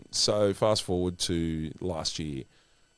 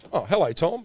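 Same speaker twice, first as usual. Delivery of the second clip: much higher, louder hello; imitated surprised greeting; 9 semitones higher, 5 dB louder than usual. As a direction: act caught off guard by a greeting. Retold surprised greeting back to Tom.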